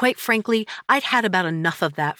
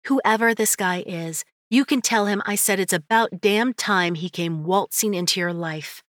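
encouraging friend voice; 3 semitones higher than usual. Acted. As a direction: push her gently toward him.

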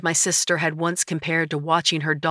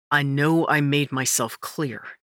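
through his teeth. Acted. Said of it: "said through his teeth".

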